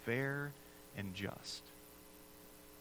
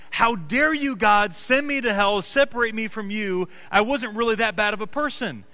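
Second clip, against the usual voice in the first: louder, voicing an outraged sinner arguing with God; mock indignant protest; 2 semitones higher, 6 dB louder than usual. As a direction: play the self-righteous soul demanding how God dares. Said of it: "they're standing before God saying".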